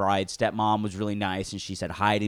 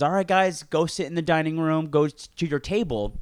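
announcing to guests; 6 semitones higher, 3 dB louder than usual. Retold or imitated. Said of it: "and then everyone's".

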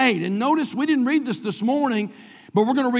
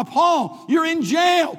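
protesting; 5 semitones higher, much slower than usual. Acted. Imagined objector challenges Paul.

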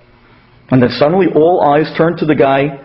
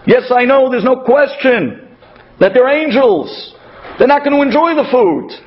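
Abraham voiced; 6 semitones higher than usual. Abraham's imagined speech, voiced.

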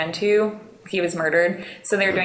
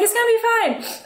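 imitating Jared reassuring. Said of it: "And he's like".

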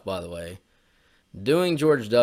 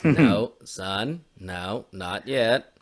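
stern father; 3 semitones lower, much slower than usual. Acted. Father answering in skit.

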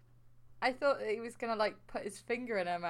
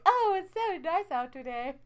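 higher-pitched mock musing to oneself; talking to oneself; 6 semitones higher, 4 dB louder than usual. Co-host mocks people out for a walk, chatting to themselves. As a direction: imitate a chatty solo stroller. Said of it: "people just talk to themselves".

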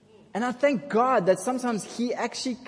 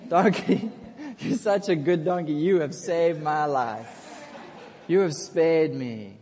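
grateful Balaam; 4 semitones lower than usual. Acted. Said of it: "he loves his donkey after that moment".

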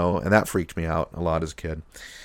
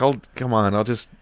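lightly voiced New York accent; brash New York accent, scenery-chewing; fake New York accent; 3 semitones higher, 4 dB louder than usual. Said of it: "he says, like".

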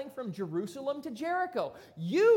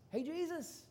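cocky challenger; 5 semitones higher, 4 dB louder than usual. Retold or imitated. So he asked Jesus.

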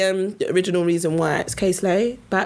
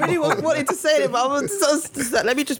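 whiny voice; 5 semitones higher than usual. Real, not acted. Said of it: "The whiny voice".

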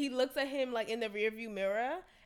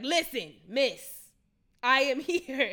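louder, higher, impatient driver losing patience; aggressive driver; 4 semitones higher, 9 dB louder, slower than usual. Retold or imitated. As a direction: bark it at the passenger half-laughing. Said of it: "You're being mad aggressive".

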